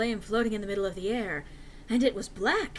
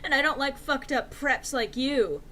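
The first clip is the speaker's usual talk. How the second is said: louder rude snapping rant; snapped; 3 semitones higher, 4 dB louder than usual. Acted. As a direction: spit it out with contempt. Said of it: "I snapped".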